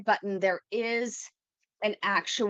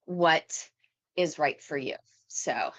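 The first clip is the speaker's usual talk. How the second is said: out of breath; 4 semitones lower, slower than usual. Real, not acted. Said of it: "wow, I'm out of breath".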